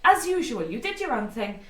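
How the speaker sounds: sharp, loud, slow scolding; angry. Acted. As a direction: scold them slowly and hard. Angry at party member.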